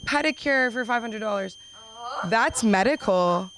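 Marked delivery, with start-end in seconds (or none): 0.0-1.6 put-on girly voice. Comic mocking a girl fussing over her toenail. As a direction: ham up a fussy girly wail. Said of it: "a girly thing".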